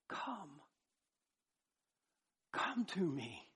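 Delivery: soft, gentle call to come; delighted tender invitation. Acted. Preacher voices God calling sinners to come, tenderly delighted. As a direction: beckon quietly, as God inviting someone close. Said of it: "now God can say delightfully".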